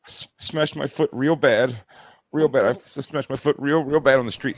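badly faked holding back of tears; imitated fake cry. Husband imitates wife phoning about her foot, mock cry. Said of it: "here is how fake her cry is".

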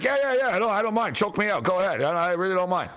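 high, quick yeahs that settle down; a keen volunteer insisting he's fine; imitating eager agreement. Cam eagerly volunteers to be choked.

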